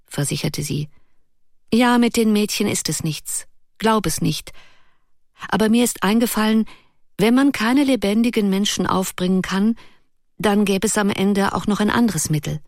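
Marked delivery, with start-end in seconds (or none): 1.7-12.6 put-on higher, eager young girl's voice; girlish Ruth. Ruth eagerly explains her idea to Erik, higher girlish voice. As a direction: lift into the lively girl's voice.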